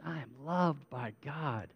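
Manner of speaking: soft, heartfelt declaration; meaning it. Shown as a demonstration. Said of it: "say it like you mean it".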